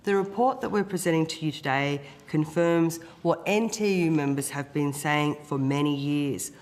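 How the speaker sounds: hoarse, rough-throated speech; croaky voice. Real, not acted. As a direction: speak through a sore, croaky throat. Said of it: "apologies once again for the croaky voice".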